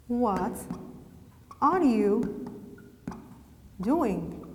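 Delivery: slow dictation with long pauses between words. Shown as a demonstration. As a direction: dictate it in small chunks for writing. Dictates example word by word.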